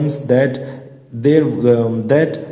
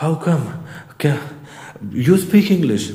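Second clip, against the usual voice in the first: mock gasping surprise; 2 semitones higher, slower than usual. Shown as a demonstration. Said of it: "इस type से".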